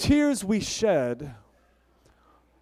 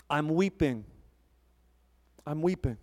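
mock weeping; 3 semitones lower, 5 dB quieter than usual. Shown as a demonstration.

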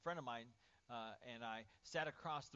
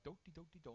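oblivious humming; 3 semitones higher, 3 dB quieter than usual. Acted. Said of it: "we're like".

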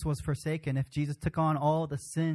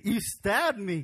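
lightly voiced son accusing his father; a mild accusing cry; hurt Isaac; 3 semitones higher, 3 dB louder, slower than usual. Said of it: "what if we were Isaac".

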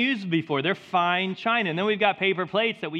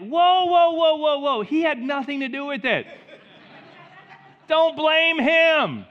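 high, loud objection; acted loud protest; 9 semitones higher, 7 dB louder than usual. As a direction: jump in to halt him, voice raised high. Acted protest defending Jesus in story.

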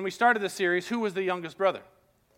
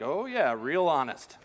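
sarcastic; 2 semitones lower than usual. Retold or imitated. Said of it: "I'm sure Joseph's like".

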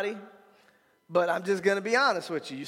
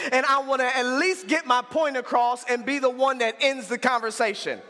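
retold defiant refusal; 2 semitones higher than usual. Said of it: "my response every time was".

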